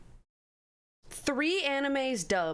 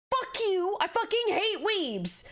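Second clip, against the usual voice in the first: higher, drawn-out exasperated outburst; heated rant; 7 semitones higher than usual. Real, not acted. Heated rant about weebs.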